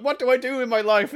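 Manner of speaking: high, loud hammed-up plea; pleading orc questioner. Orc asking the ancestors for guidance, mock pleading. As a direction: wail it like a clueless seeker. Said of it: "and he's like".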